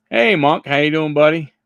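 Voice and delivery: mock-friendly shout-out to a baseball card; playful greeting. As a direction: hail the card like an old pal.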